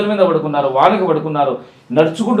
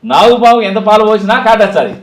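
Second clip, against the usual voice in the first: louder, higher dramatic hero speech with heavy pauses; film dialogue delivery; 3 semitones higher, 6 dB louder than usual. Acted. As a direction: declaim it like a mass-movie punchline. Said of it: "అదే స్టైల్లో చెప్పాలి మంచిగా".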